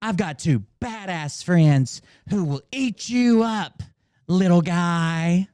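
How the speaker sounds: slow mock menace. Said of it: "repeating the threat".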